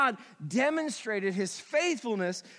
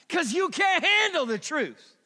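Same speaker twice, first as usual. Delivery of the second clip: higher, louder punchy movie quote; movie line quote; 5 semitones higher, 4 dB louder than usual. Retold or imitated. Pastor slipping in a film line, higher and louder. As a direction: throw in the famous line for fun. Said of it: "I had to fit that in".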